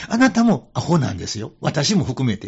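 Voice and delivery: firm but friendly correction; emphatic retort. Retold or imitated. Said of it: "それでその人に".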